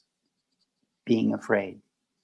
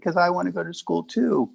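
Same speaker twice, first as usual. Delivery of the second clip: put-on child voice; 8 semitones higher than usual. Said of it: "I said".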